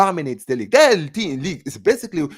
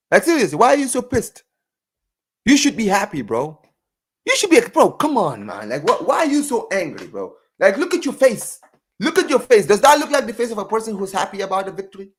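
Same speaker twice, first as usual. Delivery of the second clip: sarcastic; 5 semitones higher than usual. Acted. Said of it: "like I said, I'm being sarcastic".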